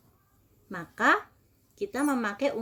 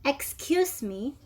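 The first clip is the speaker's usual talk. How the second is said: model phrase for repeating; 4 semitones higher, slower than usual. Shown as a demonstration. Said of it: "Please everybody repeat after me".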